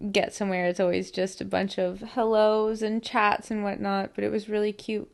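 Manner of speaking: talking with retainers in; slightly lisped retainer speech; wearing a retainer. Real, not acted. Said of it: "put my retainers in".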